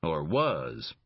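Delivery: a suspicious, cornered thug pressing for answers; Leger's voice. Acted. Voices Leger, a belligerent suspect.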